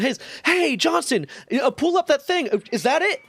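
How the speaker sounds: high squeaky imitation of the chief; a high cartoon boss barging in; mock Chief voice. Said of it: "And immediately comes over and".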